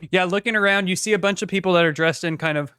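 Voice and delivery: talking round a cat hair; words with a hair in the mouth; mouth full. Real, not acted. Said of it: "I got a cat hair in my mouth".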